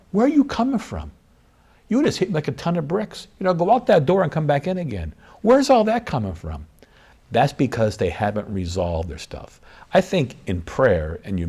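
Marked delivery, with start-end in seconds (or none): 0.1-6.7 much higher-pitched, protesting spouse voice; exasperated spouse. Acted. Spouse confronting a partner over sudden anger, high-pitched and exasperated. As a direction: act out a spouse taken aback, pitched way up. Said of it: "A lot of times the spouse will say".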